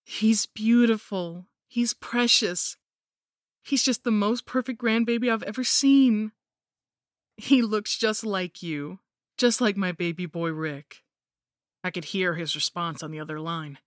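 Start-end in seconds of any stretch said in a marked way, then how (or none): 0.0-11.0 higher, louder, slow doting grandmother voice; gushing mother-in-law. Acted. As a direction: coo over the baby like a sinister granny. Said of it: "she called my husband".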